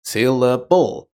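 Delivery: "Syllable" broken into three distinct parts. Shown as a demonstration. Teacher showing that the word has three syllables, "Syllable" divided into parts. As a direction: say "Syllable" in three clear beats, sil-la-ble. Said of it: "has three syllables".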